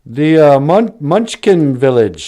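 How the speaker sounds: high, loud, sing-song welcoming voice; sweet good witch. Retold or imitated. The bubble lady welcomes Dorothy, high and sing-song. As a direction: greet her like a gushing fairy. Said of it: "She's like".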